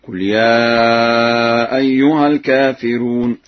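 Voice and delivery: slow recitation, light r in الكافرون; thinned ra. Shown as a demonstration. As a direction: keep the r of الكافرون thin and unemphatic. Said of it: "بترقيق الراء في لفظ الكافرون".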